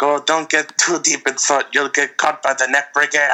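put-on hokey French-accented waiter warning; bad movie French accent, played for laughs; weird French accent. Waiter warning the sad woman, weird French accent. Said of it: "weirdest fucking accent I've ever heard".

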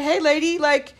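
exasperated retort. Retold or imitated. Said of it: "I said".

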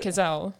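"Cazale" ending on the L; Cazale, silent E. Shown as a demonstration. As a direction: say "Cazale" without sounding the final E. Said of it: "but that sounds wrong".

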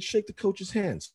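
high, drawn-out parental command; acted-out exasperated dad; retold annoyed order. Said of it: "I was already kinda pissed".

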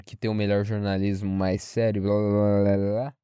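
low, droning mock of classmates; dismissive mimicry. Classmates praising Globo's journalism, dismissive mimicry.

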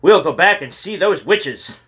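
high, loud teasing yell. A narrator's reading. James yells his threat at Kyle, loud and high. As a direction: shout it to scare your friend. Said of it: "James wheeled about and yelled".

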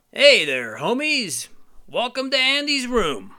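high, bright hero greeting; Buzz Lightyear. Acted. Buzz welcoming the homies to Andy's room, high and friendly. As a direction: play the cheerful space ranger. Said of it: "Buzz Lightyear's like".

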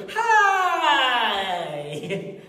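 bright mock "Hi!" with a laugh; fake cheery greeting. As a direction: imitate a fake smiley greeter. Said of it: "people that come".

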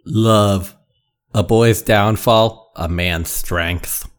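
slow, low, portentous aphorism; drawn-out faux-profound musing; mock-solemn proclamation. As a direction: intone it like mock poetry, sinking at the end. Topping each other's grand love lines.

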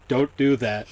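flat, lifeless delivery; deadpan robotic line; monotone voice. Retold or imitated. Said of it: "in the most monotone voice".

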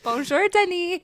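high, bright, polite work voice; chirpy phone-greeting voice; customer service voice. Acted. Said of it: "That's my customer service voice".

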